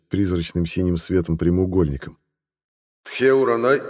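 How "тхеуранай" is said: metallic voice. A narrator's reading. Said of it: "произнёс металлический голос".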